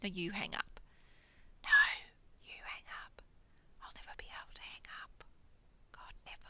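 whispered lovey phone goodbye; giggly late night call. Pretend. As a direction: whisper it like a smitten lover. Mock lovers' phone goodbye.

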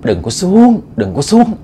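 eerie warning drawn out from behind; a ghostly call carried on the wind. Acted. Unseen voice warns men in the tree, eerie windborne call. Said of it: "nói trong gió vậy đó".

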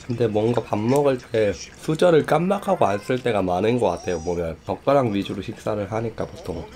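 talking with food in mouth; eating between words; chewing while talking. Real, not acted. Seen 0: cheeks and lips move as if chewing while he talks.

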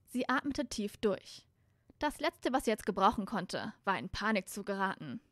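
clearly articulated storybook reading; story narration. A narrator's reading. Reader tells how Hermine turns on Malfoy, story narration. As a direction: narrate the scene evenly and audibly.

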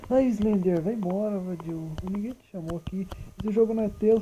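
telling Slender off in mock anger; mock scolding. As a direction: shoo him away.

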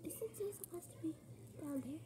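hushed whisper to herself. Retold or imitated. Kid wondering where her sister went, whispered. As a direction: whisper it like you don't want mom to hear. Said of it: "I was like".

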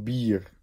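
Bier with a long, drawn i before the r. Shown as a demonstration. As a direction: stretch the ie in Bier. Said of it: "Bier is niet hetzelfde I".

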